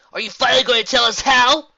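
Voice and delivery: high, loud demand; impatient pony. Acted. Impatient pony questions zebra.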